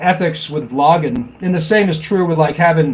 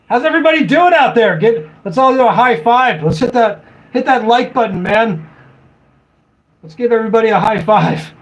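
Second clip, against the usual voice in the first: higher, faster pumped-up host voice; mock hype vlogger; 4 semitones higher than usual. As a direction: play the over-eager YouTuber asking for likes. Parodying hyped-up vlogger greeting.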